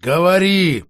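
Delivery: near growl. Acted. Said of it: "почти прорычала Алисанда".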